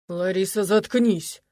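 сдержанно, с нажимом на «заткнись»; сдерживай ярость; процедил сквозь зубы. Acted. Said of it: "процедил Олег". (злое процеживание)

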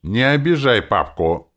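high, loud protective cry; cried out. A narrator's reading. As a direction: call out in the father's defence. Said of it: "крикнула Ирка". (крикнув, высоко и громко)

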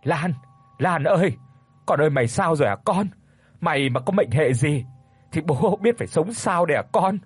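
father at the emergency room door, wailing frantically; frantic wailing call. Acted. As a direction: cry out for your injured daughter. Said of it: "như không giữ được bình tĩnh mà chạy vội đến bên cửa cất giọng gọi".

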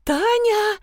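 high yelled call of Tanya; startled high yell; yelling a name. A narrator's reading. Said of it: "потом заорала".

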